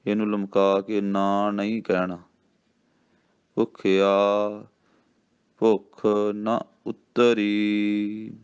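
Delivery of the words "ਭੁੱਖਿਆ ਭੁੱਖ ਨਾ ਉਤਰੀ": ਭੁੱਖਿਆ, then a clear pause, then ਭੁੱਖ ਨਾ ਉਤਰੀ slowly; slow recitation with a pause after ਭੁੱਖਿਆ. Shown as a demonstration. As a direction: hold a break after ਭੁੱਖਿਆ before going on. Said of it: "ਨਾ ਇੰਝ ਹੀ ਬੋਲਣਾ".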